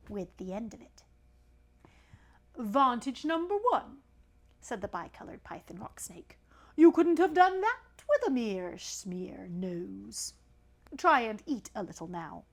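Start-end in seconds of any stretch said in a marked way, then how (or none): 2.6-4.0 pompous python, a touch higher; snake voice. Acted. Python rock snake addressing the elephant's child, lightly voiced. 6.7-12.4 slow hissy python voice; slow snake voice. Acted. Python rock snake lecturing the elephant's child slowly.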